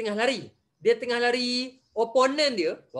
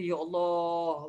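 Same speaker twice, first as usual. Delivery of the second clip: dismayed sigh; 5 semitones lower, 4 dB quieter, much slower than usual. Retold or imitated. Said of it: "Ustaz kata".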